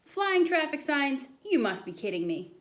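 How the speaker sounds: a touch of a stern teacher; incredulous teacher. Acted. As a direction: draw out the doubt. Teacher doubts boy's tale.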